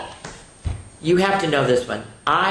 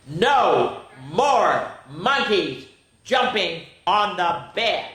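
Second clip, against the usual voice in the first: doctor's stern voice; 3 semitones higher, 4 dB louder, much slower than usual. Acted. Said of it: "are you ready?".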